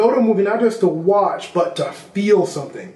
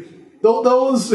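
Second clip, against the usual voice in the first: laughing; 6 semitones higher than usual. Real, not acted. Laughs after movie quote.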